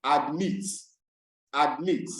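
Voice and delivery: weight the second syllable of admit; stress on last syllable. Shown as a demonstration. Teacher giving students examples of verbs, last-syllable stress. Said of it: "the stress will be on the last syllable".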